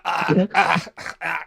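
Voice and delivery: mock groans of stiff morning pain; achy waking-up groans. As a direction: groan like an aching body getting up. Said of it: "both waking up like".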